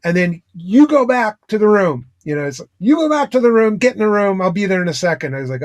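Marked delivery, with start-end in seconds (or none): 0.6-2.1 stern order. Retold or imitated. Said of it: "he got real stern". 2.8-5.3 stern order. Retold or imitated. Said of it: "he got real stern".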